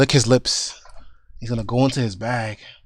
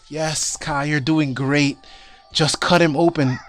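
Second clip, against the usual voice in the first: rising to a high, loud plea; Amelia urging; 3 semitones higher, 9 dB louder than usual. Acted. Healer Amelia urging Kai to hurry, louder and higher. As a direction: push him faster and faster, fading. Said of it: "you hear Amelia say in the back of you".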